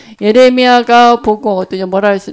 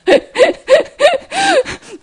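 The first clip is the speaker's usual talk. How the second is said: tearful laugh. Real, not acted. Recalling her weeping, laughs tearfully.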